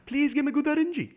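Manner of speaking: high-pitched whiny plea; squeaky, imploring beg; begging. Real, not acted. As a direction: plead with the game. Pleading harder with the game.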